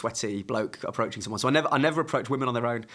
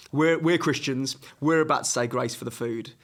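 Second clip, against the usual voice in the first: rehearsed line. Shown as a demonstration. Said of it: "that's a rehearsed line".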